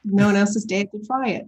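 playful attempt at an Australian accent; mimicked Australian accent. Shown as a demonstration. Actress parrots her Australian interviewer's line, mimicked Australian accent. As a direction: copy the Australian line with a laugh. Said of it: "I just copy you. I'm a good mimic".

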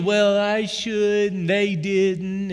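grumbling self-talk. Retold or imitated. Voicing his own grumbling thoughts.

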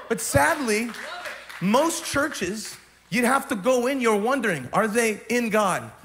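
building, loud sermon shout; rally the whole room; preacher building to a roar; full-force preaching. Acted.

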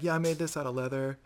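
softly voiced gentle nerd; understated nerd impression; total nerd. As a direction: drop the volume, a sheepish hobbyist. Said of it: "like, total nerds".

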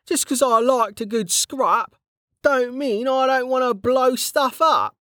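Kettle's voice. A narrator's reading. Kettle greeting an old friend back from the dead, jovial. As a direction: play the cheeky old comrade, teasing.

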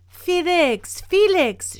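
high, loud urgent call to a neighbor. A narrator's reading. Old woman summoning neighbor Felix, calling out. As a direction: holler the name for help. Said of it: "she called out".

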